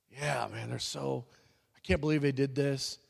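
grumbling under breath. Retold or imitated.

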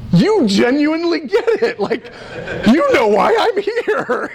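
high, laughing through the words; laughing delight. Retold or imitated. Telling his disciple he gets it, laughing. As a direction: laugh it out amazed. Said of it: "I'm like".

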